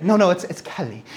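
imitated child's "Kelly" with a hint of Irish; slight Irish accent. Daughter insists on her friend's surname, slight Irish accent. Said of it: "this tiny little accent".

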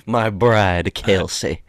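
light put-on Southern accent. Mocking co-host's word for his partner, lightly Southern. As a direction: introduce her with a hint of Southern gentleman. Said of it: "That's Southern. It kinda sounds Southern".

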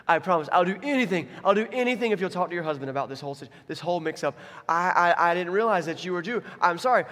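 hammed-up frantic pleading; desperate, comic begging; freaking out. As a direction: babble promises and apologies in mock panic. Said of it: "and he's freaking out".

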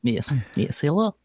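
put-on Russian accent rising high on the greeting; playful Russian-accented hello; Milos. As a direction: bring back the Russian character. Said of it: "If he decides to show up again".

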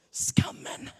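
sudden whisper. Real, not acted. Preacher whispering shame after the climax, hushed. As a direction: drop to a breath after the storm.

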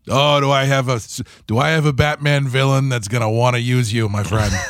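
Chicago gangster voice; old-time gangster. Retold or imitated. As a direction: offer a job like a mob boss. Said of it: "Chicago-y gangster voice".

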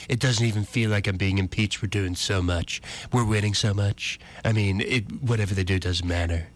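lightly voiced presidential boaster; a hint of impression, level and offhand; Donald Trump. Radio host quoting the president at a rally, lightly voiced impression. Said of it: "Do you use your Trump voice".

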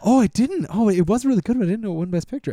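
Thor. Retold or imitated. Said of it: "And then Thor is like".

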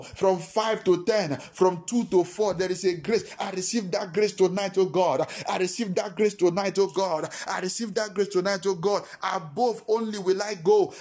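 loud declaring prayer; fervent preaching prayer. Acted. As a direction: proclaim it with rising fervor.

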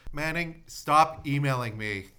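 slow, firm telling-off; laughing while scolding; mock scolding. Real, not acted. Scolding a politician on air.

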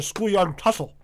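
talking through a mouthful; chewing while speaking; mouth full. Real, not acted. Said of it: "I'm eating chocolate chip cookies".

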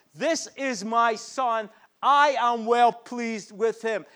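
slow, tender, reverent delivery; voice of God. Acted. Preacher voicing God's words to the congregation, slow and tender. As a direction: speak each phrase slowly, like a loving father. Father God affirming the son.

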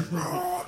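high mock death-metal roar; hammed-up band scream; imitated metal scream. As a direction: roar like an extreme metal vocalist. Imitates extreme metal singer's roar.

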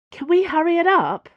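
high, loud, anxious urging. A narrator's reading. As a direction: press them nervously to hurry. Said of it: "Dana said anxiously".

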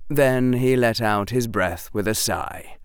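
plain reading voice

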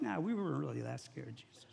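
low, soft backpedalling; sheepish denial. Acted. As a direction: play it down quietly after being frightened. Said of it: "And the guys are like".

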